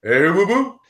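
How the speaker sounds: lightly voiced cartoon bear; Yogi Bear. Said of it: "I always did this".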